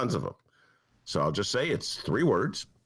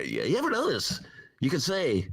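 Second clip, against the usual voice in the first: George Carlin imitation; 3 semitones higher than usual. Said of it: "that's my George Carlin imitation".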